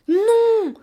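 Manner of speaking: high, loud wailing cry; bursting into sobs. A narrator's reading. Child dragged back from the window, bursting into sobs. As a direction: wail it out, drawn long. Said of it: "dis-je en éclatant en sanglots".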